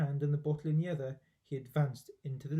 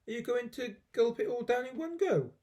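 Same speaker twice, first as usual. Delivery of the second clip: sly question; 8 semitones higher than usual. Acted. George teasing question.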